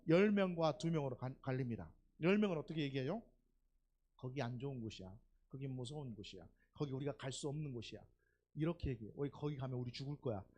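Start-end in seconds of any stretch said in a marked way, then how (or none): 4.2-8.0 soft, lowered naysaying; acted bad report. Preacher voices ten spies reporting on Canaan, quiet naysaying. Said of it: "이렇게 막 악평을 얘기해요". 9.2-10.4 soft, lowered naysaying; acted bad report. Preacher voices ten spies reporting on Canaan, quiet naysaying. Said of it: "이렇게 막 악평을 얘기해요".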